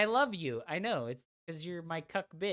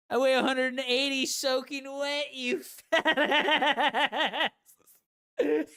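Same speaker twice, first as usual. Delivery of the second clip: loud laughing taunt; laughing shout; 8 semitones higher, 7 dB louder, slower than usual. Real, not acted. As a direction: yell it through laughter. Yelling taunt at viewer.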